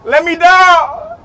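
drawn-out, high frightened begging; terrified long call to be let down; slow desperate plea. Real, not acted. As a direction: stretch out the plea in fear. Pleading slowly on ride.

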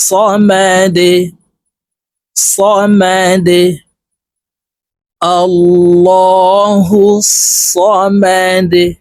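সমাদে slow, the দ bounced downward; qalqala on dal. Shown as a demonstration. Teacher models the bounced দ for students. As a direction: stretch it and bounce the final দ. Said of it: "নিচের দিকে ধাবিত করে ধাক্কা দিয়ে".

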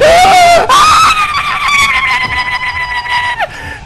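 high shrieking laughter. Real, not acted. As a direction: burst into shrill laughter. Loud laugh.

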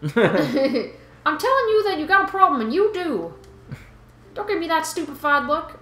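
put-on Boston fish guy, accent starting to slip; slipping Boston accent. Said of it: "Well, I'm losing it".

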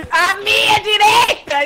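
frustrated shout. Real, not acted. Frustrated at camera directions.

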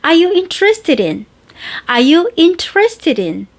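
easy flowing "Are you interested in?"; relaxed, natural. Shown as a demonstration. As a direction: let it roll out comfortably. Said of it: "이렇게, 어, 편안하게 나와".

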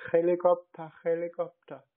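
insistent correction. Pretend. Prankster gives his name as Helikopter.

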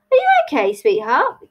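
very high, concerned question; concerned grandma. Acted. Grandma checks on Tilly, concerned and high-pitched.

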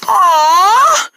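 put-on high, drawn-out kid whine; disappointed. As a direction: let out a let-down aww. Plan failed.

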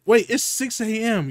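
surprised. Real, not acted. Surprised realization at hour.

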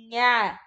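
"nha" said alone as one drawn-out sound; sounded-out syllable. Shown as a demonstration. Teacher shows what N H makes, isolated "nha" sound. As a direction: sound out "nha" for a beginning reader. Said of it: "Ó o N H que faz".

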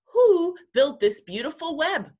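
high, loud storybook owl question; owl asking. A narrator's reading. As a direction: ask it as a hooting owl. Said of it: "asked the owl".

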